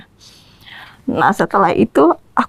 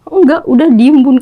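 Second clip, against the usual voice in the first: retold snap; 3 semitones higher, 6 dB louder than usual. Daughter snapping at mother, retold.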